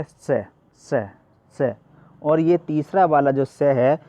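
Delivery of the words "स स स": स said as a retroflex sh, tongue curled back to the palate; retroflex sh sound. Shown as a demonstration. Teacher demonstrating the retroflex sibilant to the class. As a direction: hold स with the tongue tip turned up behind the gums. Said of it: "तो इसका उच्चारण कैसे करेंगे?".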